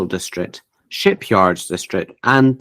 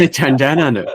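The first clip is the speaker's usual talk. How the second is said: put-on higher, louder joke Australian accent; mock Australian accent; 5 semitones higher, 4 dB louder than usual. Joking about a spin-off series, mock Australian accent. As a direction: put on a hammed-up Aussie twang. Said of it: "let's not do any Australian accents".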